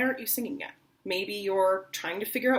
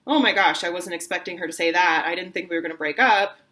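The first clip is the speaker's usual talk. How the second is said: louder stunned disbelief; shocked; 5 dB louder than usual. Shown as a demonstration. Teacher acts the shock of being dumped, louder. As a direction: gasp it out in shock. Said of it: "Maybe you are like".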